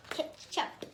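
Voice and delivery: high, unvoiced gasp of Ketchup!; surprised exclamation. A narrator's reading. Reader reacting to the ketchup in the magic brew, surprised. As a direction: blurt it out in disbelief.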